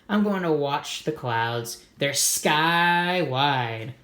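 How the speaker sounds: slow, drawn-out dreamy delivery; dreamy calm. Acted. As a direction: savor the words sky wide. Molly's dreamy answer.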